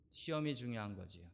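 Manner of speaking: mock ironic answer. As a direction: play the worldly answer, dry and ironic on 시험이.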